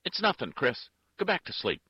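loud, high call to another room; calling back. A narrator's reading. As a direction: raise the voice to fend him off.

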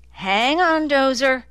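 high, loud urgent bark; a sharp, urgent command. A narrator's reading. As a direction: snap it out to keep him awake. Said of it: "Nick barked".

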